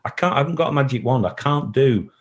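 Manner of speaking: high, strained voice near tears; fighting back emotion; emotional. Real, not acted. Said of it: "I'm getting emotional now".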